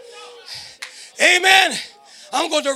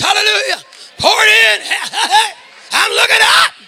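sermon delivery with rising cries; preaching; 3 semitones higher than usual. Acted. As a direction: urge the congregation on. Preacher exhorting congregation.

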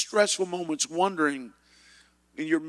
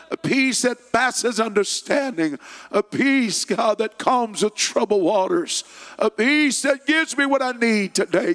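higher, louder pleading prayer; fervent prayer; 4 semitones higher, 5 dB louder than usual. Acted. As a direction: lift the room in prayer, calling on God. Leads the congregation in prayer.

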